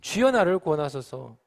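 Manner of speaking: drawn-out prayerful cry; crying out to the Lord. Acted. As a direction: call out to God for rescue. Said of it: "주님을 향해 외치고 있어요".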